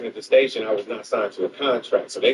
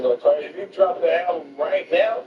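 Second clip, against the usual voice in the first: raised, higher urgent plea; pleading with a friend not to drop it; mock warning to Craig; 9 semitones higher than usual. Quoting himself warning Craig, high and urgent.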